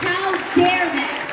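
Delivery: slow, drawn-out outrage; slow, indignant how dare they. Real, not acted. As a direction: let each word land, slowly. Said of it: "I was immediately furious".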